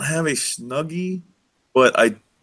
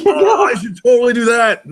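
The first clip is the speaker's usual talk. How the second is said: excited; 10 semitones higher, 5 dB louder than usual. Real, not acted. Excited reply to rave joke.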